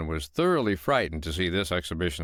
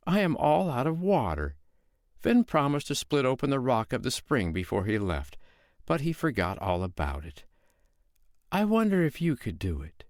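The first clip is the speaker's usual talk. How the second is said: mild, higher, innocent housewife voice; sweet-voiced woman; 5 semitones higher than usual. Foster mother calmly lying to the giant, innocent tone. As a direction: play the calm mother who is fooling the giant.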